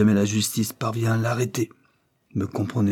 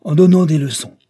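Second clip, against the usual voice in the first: louder, higher echo in disbelief; incredulous repeat; 7 semitones higher, 8 dB louder than usual. A narrator's reading. Count echoing Isabel's plan in disbelief. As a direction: repeat her words doubting them. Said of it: "répéta lord Mountsever".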